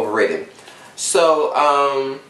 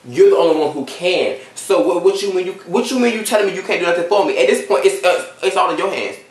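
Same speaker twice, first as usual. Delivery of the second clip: higher-pitched, indignant pushback; retold indignant protest; 5 semitones higher than usual. Student confronting the lady who won't help, indignant. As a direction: argue back in raised pitch, incredulous.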